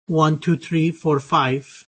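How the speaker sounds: Irish English vowels on "One, two, three, four, five"; Irish counting. Shown as a demonstration. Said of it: "an Irish person, counting from one to five would say".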